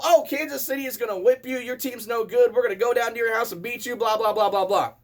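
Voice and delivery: taunting Chiefs fans. Retold or imitated. Chiefs fans needling the lone Cowboys fan on the drive, mock taunting. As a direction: imitate cocky rival fans running on into blah-blahs. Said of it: "And it was all".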